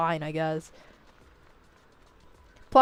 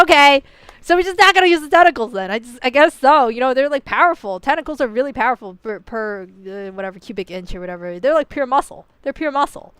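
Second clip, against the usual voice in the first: loud, raised, fast and incredulous; mock exasperated rant; 3 semitones higher, 6 dB louder than usual. Arguing with the designer about tentacles, loud mock exasperation. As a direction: pile on the disbelief about the tentacles. Retelling own exasperated reply to Medusa.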